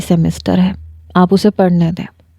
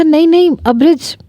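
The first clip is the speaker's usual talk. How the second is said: much higher hurried "no, no"; anxious backpedal; flustered plea; 8 semitones higher than usual. Acted. Fiancé panicking as Abraj threatens to hang up, high and flustered.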